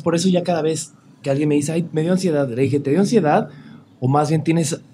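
ordinary talk, nothing marked

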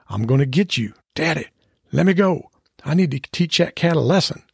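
high, pleading, worked-up dog voice; feisty dog. Acted. Maggie begging daddy to release her, high and feisty. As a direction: beg to be let loose, high-pitched. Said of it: "Maggie and the cat exchanged telepathic remarks".

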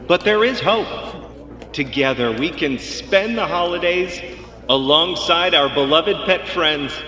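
rising rousing pep talk; roaring rallying speech. Acted. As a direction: build it up to a rallying cry. Vet rallying the crowd.

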